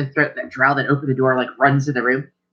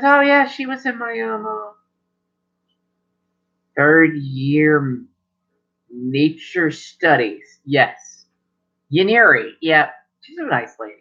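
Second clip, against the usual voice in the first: put-on old grandfather remembering; 2 semitones higher, slower than usual. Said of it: "He goes".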